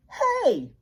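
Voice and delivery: high, sharp mock yell of an annoyed camper; camper's yell. A narrator's reading. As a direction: call out like an angry camper. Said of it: "yelled a camper".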